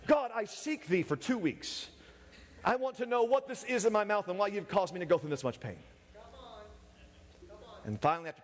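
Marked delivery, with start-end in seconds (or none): 0.1-5.8 higher-pitched plea to God; hammed-up prayer of desperation; mock-solemn prayer. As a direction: play an earnest seeker petitioning heaven. Mock prayer over a toothache.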